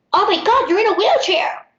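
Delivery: high, loud mimicked outburst; out-loud shock. Woman discovers the substitute is in a wheelchair, loud shock. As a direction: blurt it out high and loud, imitating her. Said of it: "Like, out loud".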